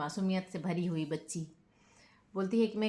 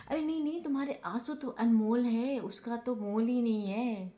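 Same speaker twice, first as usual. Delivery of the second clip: mock sweet backpedal; 4 semitones higher than usual. Rajat backpedals, retold.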